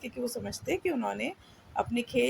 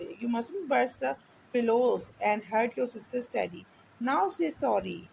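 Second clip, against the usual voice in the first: mild stern scolding; 2 semitones higher, much slower than usual. Acted. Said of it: "said his mother sharply".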